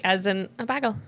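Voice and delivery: "bagel" said BAG-ul, with a short a; mimicking Poppy. Podcaster hearing a character in it, mimicked "bagel" as BAG-ul. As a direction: imitate a Midwestern BAG-ul for "bagel". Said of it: "I can hear Poppy in that".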